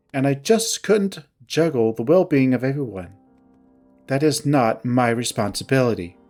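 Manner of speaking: mildly curt, controlled grievance. Acted. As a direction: recount the betrayal with restrained reproach. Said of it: "her tone curt".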